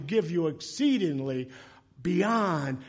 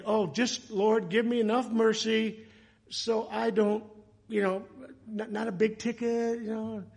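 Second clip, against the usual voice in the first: pleading prayer; 5 semitones higher than usual. Retold or imitated. Driver's silent plea for mercy.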